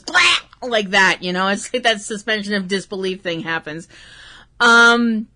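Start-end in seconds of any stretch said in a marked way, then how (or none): 0.0-0.4 mock choke sound. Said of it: "and then goes".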